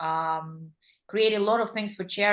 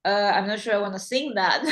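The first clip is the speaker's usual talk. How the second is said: amused mock hesitation. Mock reluctance, laughing.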